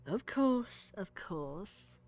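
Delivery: put-on Southern accent slipping into British; failed Southern accent. Game master fumbles Verbena's voice, failed Southern accent. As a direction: try Southern but let British creep in. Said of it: "I can't even do a Southern accent".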